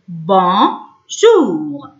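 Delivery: بونجور slowly, as two separate syllables. Shown as a demonstration. Teacher putting the spelled sounds together, syllable by syllable. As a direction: split بونجور with a gap in the middle. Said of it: "او يو ننطقه او".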